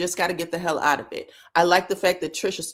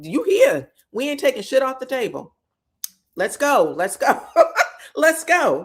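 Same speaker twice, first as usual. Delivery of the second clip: punchy, louder urging that breaks into a laugh; rally them with mock gusto; egging on; 4 semitones higher, 4 dB louder than usual. Recapper voicing the film crew, eagerly egging it on.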